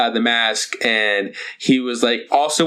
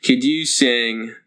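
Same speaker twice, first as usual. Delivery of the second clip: weird fan voice; 5 semitones lower, slower than usual. Retold or imitated. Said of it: "has a weird voice".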